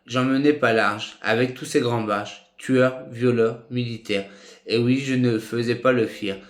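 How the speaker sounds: measured spoken-word recitation; recited tribute. Acted. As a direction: recite a heartfelt written tribute, phrase by phrase.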